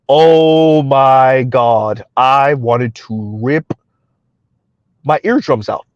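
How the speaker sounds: long drawn-out, low exasperated groan of words; slow, pained disbelief. Real, not acted. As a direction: stretch every word out in agony. Recalling the unbearable voice.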